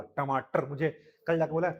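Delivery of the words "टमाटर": टमाटर with the tongue curled back for each ट; exact pronunciation. Shown as a demonstration. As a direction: model टमाटर carefully for the class. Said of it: "एकदम जोर बोला".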